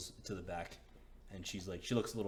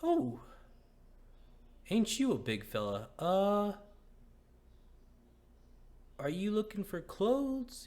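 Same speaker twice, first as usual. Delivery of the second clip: high, loud, flustered shopkeeper woman; 8 semitones higher, 8 dB louder than usual. Acted. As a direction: play her high, loud and taken aback. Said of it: "She's like".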